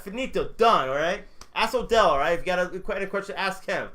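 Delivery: lightly heated coach imitation; a touch of a worked-up coach; fired-up coach. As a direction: retell the coach's curt outburst, emphatically. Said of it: "the coach got fired up too".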